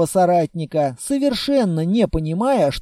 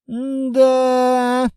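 gloomy; 6 semitones higher than usual. Acted. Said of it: "мрачно произнёс Литвин".

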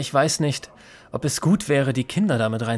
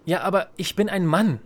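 higher-pitched, self-important comeback; smug retort; 6 semitones higher than usual. Acted. Ben boasting to the girls that he's a man, smug. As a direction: puff yourself up and insist.

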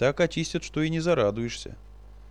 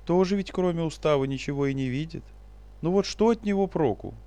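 mock sorrowful; 6 semitones higher than usual. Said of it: "пригорюнившись нарочито".

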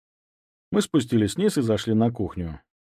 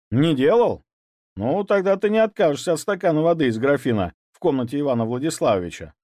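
smirking; 5 semitones higher, 3 dB louder than usual. Acted. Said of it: "усмехнулся я".

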